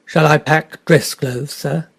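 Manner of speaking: slow, apologetic valet's question. Acted. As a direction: ask it humbly, a little embarrassed. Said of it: "George's voice broke apologetically".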